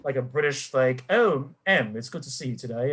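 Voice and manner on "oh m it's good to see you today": mock James Bond. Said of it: "this, like, James Bond".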